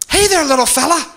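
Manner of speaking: put-on talking down to a child; sugary condescending greeting; patronizing. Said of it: "very patronizing".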